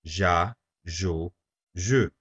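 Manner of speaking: "Ja, jo, je" each with a soft zh sound. Shown as a demonstration. Teacher showing how the E keeps the G soft. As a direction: say "Ja, jo, je" with the soft G of pleasure. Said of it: "we add an E before that".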